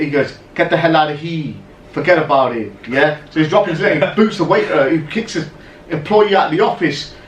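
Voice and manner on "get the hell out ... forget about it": imitated New York gangster accent; mock gangster accent. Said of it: "putting on this accent".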